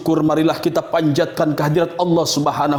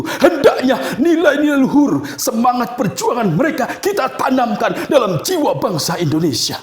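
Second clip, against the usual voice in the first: rousing climax; 5 semitones higher than usual. Acted. Climax of patriotic speech.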